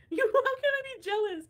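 high, loud, laughing through the words; can barely speak for laughing; real laughter breaking into the line. Real, not acted. Laughing hard at the ex.

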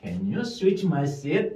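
slow, as one unit; slow whole sentence. Shown as a demonstration. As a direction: say it slowly as one chunk. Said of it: "이런 식으로". (한 덩어리로 천천히)

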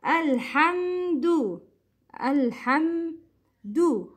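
Alhamdu slowly, ending on a full "doo"; full dhamma. Shown as a demonstration. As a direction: stretch out Alhamdu, rounding the final u. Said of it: "you should complete the Dhamma". (Alhamdu with a pure oo at the end)

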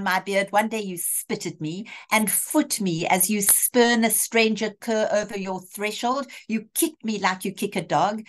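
lightly acted, pointed questioning of a hypocrite; Shylock, indignant. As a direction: throw the request back with mild dramatic scorn. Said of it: "And Shylock says".

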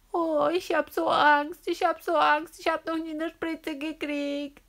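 put-on pleading, scared child; beg, frightened of the needle; Anna telling the doctor she fears the injection; scared of the shot.

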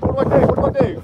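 very high, frantic plea for help; overwhelmed, begging for instructions; panicked. Real, not acted. Scared angler asking the crew how to handle the fish, panicking.

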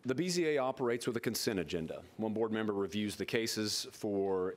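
measured, official reading of a script; formal agenda read-out. Real, not acted. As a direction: read the case list into the record. Reads consent agenda aloud formally.

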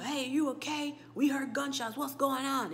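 walkie-talkie voice. Retold or imitated. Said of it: "you hear the people".

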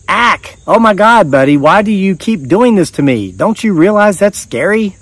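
high-pitched, startled yelp and plea; startled gasp. Retold or imitated. Narrator startled by the bathroom rollie, high frightened yelp. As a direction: jump out of your skin, then plead with him. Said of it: "I gasped".

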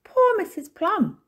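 high, loud, drawn-out pity; sympathetic exclamation. A narrator's reading. Missus Topsy-Turvy pitying Missus Plum, high and sympathetic. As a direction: voice a character pitying someone, high and slow.

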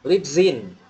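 "lives in" joined as "lip-zin"; teacher's drill linking "lives" onto "in"; linked lives in. Shown as a demonstration. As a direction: model "lip-zin" as one word, falling at the end. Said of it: "repeat after me".

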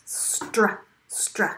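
"Str" repeated on its own; isolated blend. Shown as a demonstration. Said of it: "consonant blends actually have three".

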